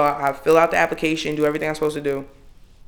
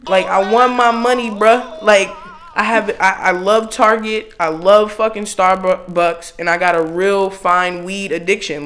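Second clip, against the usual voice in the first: raised, emphatic comic rant; unfiltered exasperation; 3 semitones higher, 4 dB louder than usual. Retold or imitated. Voicing the real feeling behind a polite email, exasperated. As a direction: plead the case loudly, stretching out the favorite things. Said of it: "translating it to how it really felt".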